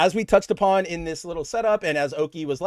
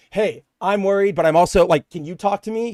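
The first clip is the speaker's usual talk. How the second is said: concerned partner. Shown as a demonstration. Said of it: "he's not here going".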